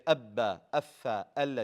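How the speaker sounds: "abba, affa, alla" with short doubled consonants; doubled, not held. Shown as a demonstration. Teacher contrasts other letters with mim and noon, doubled briefly. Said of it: "You just show two, you don't hold".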